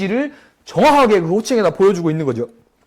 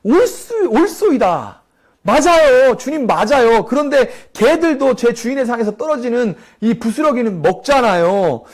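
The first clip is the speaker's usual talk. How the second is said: eager plea; 6 semitones higher than usual. Pretend. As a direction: beg him with sudden hope, pitched well up. Woman's eager plea to Jesus.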